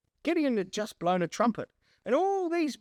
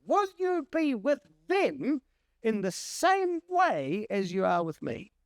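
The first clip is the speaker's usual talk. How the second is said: high, slow, searching plea; pleading Gideon; 5 semitones higher, slower than usual. Acted. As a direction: press God gently for an answer. Gideon's second request voiced.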